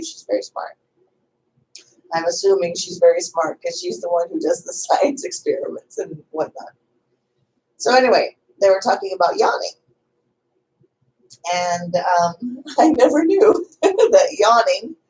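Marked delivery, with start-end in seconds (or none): 0.0-0.8 murmured under the breath; tossed-off whisper; whispered aside. Real, not acted. Half-voiced aside about the mom. 12.8-15.0 higher, louder through laughter; laughing. Real, not acted. Laughing at a surprising fact.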